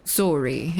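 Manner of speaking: "sorry" said the Canadian way, long round first vowel; slow Canadian-style "sorry"; Canadian pronunciation. Shown as a demonstration. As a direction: give "sorry" a Canadian "soar-ee" sound. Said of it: "a couple words being different".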